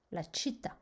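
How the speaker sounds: La città with the accent on the final TÀ; stress on last syllable. Shown as a demonstration. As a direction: land on TÀ in La città. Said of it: "sur la dernière syllabe". (accent tonique sur « tà » dans La città)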